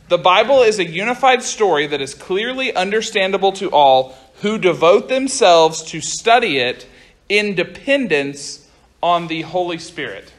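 measured dictation, phrase by phrase; slow down and separate each phrase for note-takers. Real, not acted. Youth pastor dictating a statement so everyone can write, slow. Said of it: "I'll try to say it slow".

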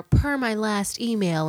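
slow, prim mock-polite read; mock the snippy office tone; passive-aggressive email voice. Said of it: "y'all think y'all real cute".

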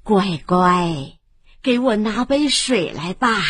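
put-on old woman asks the family for water; old granny. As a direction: speak like a gentle grandmother. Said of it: "是老婆婆".

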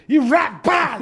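high, sharp mock whip sounds; whip crack noises. Telling friends how the belt cracked, imitated whip sounds. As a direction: spit out the lash like a cracking belt.

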